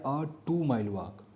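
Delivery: a two mile walk said very slowly, word by word; slow and spelled out. Shown as a demonstration. Teacher slowly repeats the example phrase for students. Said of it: "देखो अ लग गया".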